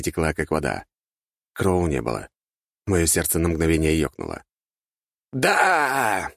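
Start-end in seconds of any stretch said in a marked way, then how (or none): 5.3-6.3 high-pitched yell of victory; triumphant cry. A narrator's reading. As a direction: explode with joy. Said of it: "закричал Артега".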